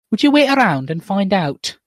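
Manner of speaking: lightly acted wronged wife; female character voice. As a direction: challenge him in a slightly put-on voice. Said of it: "read it out in two different voices".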